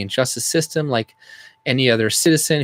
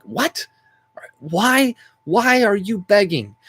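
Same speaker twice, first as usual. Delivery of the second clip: pitched-up, disbelieving what; incredulous retort; 8 semitones higher, slower than usual. Retold or imitated. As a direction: scoff in disbelief at the beggars. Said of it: "I'm like".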